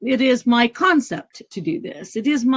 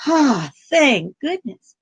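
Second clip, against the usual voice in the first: usual speaking voice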